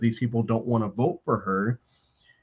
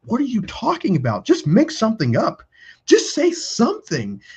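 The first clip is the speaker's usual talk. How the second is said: high-pitched, pleading push, slowing on the last line; mock-exasperated coaching a friend; exasperated urging; 10 semitones higher than usual.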